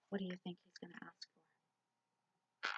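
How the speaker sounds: put-on hushed question to the children; whisper. Teacher whispering a guessing question to children.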